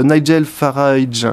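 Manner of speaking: Nigel Farage said slowly with a put-on English accent. Shown as a demonstration. Radio host names a British politician in a proud English accent. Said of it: "avec mon bel accent".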